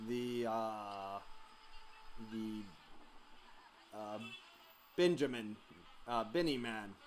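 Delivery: put-on slow, heavy Russian accent; menacing Russian interrogator accent. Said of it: "I got my demon voice and my Russian voice".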